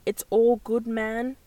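trying out an American accent; light put-on American accent. Shown as a demonstration. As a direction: test the phrase in an American accent. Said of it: "I guess in the American accent".

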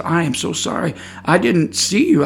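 soft, earnest apology; calm, quiet. Retold or imitated. Telling the woman he didn't see her, calm and quiet. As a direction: gently explain and apologize. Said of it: "in a very calm, quiet manner".

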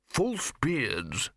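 proud eureka, lightly voiced; triumphant. A narrator's reading. Lecturer proposing disguise: understated triumph. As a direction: announce the idea like a discovery. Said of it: "said the lecturer in recent runes triumphantly".

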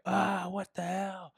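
high, drawn-out retold freak-out; mock panic. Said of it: "Everybody's just tripping".

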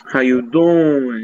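slow, drawn-out doll greeting; goofy toy voice. Pretend.

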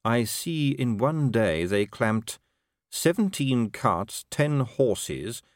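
very slow, deliberate listing; urbane patrician, deadpan. Acted. Patrician reading out the traffic division's haul, slow and deadpan. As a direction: itemise it drily, lingering on each item.

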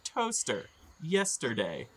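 random words called out high; silly high imitation of bad gibberish; garbled goblin speak. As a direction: sing out each nonsense word separately. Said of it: "it sounds like somebody saying".

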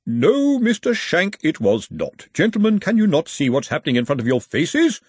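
lightly voiced fussy old academic; prim referee. Referee correcting Andy over the rules, lightly voiced prim academic. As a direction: precise and patient, a little pompous.

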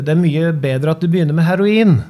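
mock roar of an event announcer; bellowing race announcer. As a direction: bellow the punchline out to the crowd. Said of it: "Arne Oddvar bare brølte ut".

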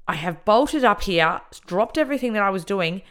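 high, loud, incredulous complaint; indignant rant. Retold or imitated. Inmate fuming at being rushed over, indignant rant. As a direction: lean hard on it in outrage.

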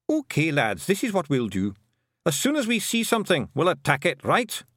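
high, rousing Scots battle plan; rallying Feegle chief. Acted. Rob Anybody rallies the Feegles for battle, rousing Scots. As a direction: pump up the lads, Scots burr.

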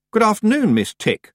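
high, loud pointed greeting. A narrator's reading. Tiffany greeting Miss Tick loudly. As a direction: call out the greeting. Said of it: "she said loudly".

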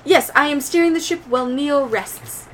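understated dutiful droid voice; droid Koto. Acted. Droid answering the crew about steering, lightly formal.

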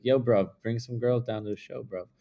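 lightly imitated British accent; a touch of British in a casual request. Tour manager asking a friend for guests, light British accent. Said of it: "he has this British accent".

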